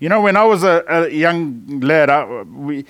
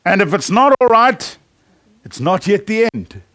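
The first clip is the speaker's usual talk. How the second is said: hotel manager quote; 3 semitones higher than usual. Retold or imitated. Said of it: "he says this".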